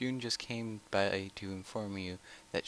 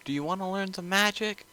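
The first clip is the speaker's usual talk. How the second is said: eager voice at the door; 11 semitones higher than usual. Acted. Voice at the door at dawn.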